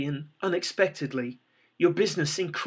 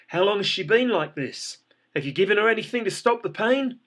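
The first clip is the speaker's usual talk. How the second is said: higher, louder and quicker, pressing for answers; urgent; 5 semitones higher, 4 dB louder than usual. Acted. The paramedic urgently questions you about her condition. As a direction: rush the questions like a medic on the clock. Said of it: "There's an urgency in his voice".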